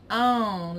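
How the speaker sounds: "on" as a nasal "ão" diphthong; nasalized vowel. Shown as a demonstration. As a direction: say "on" through the nose. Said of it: "like, nasally".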